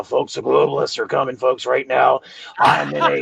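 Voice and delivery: a hint of a ranting radio host; Alex Jones. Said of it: "I sound like Alex Jones right now".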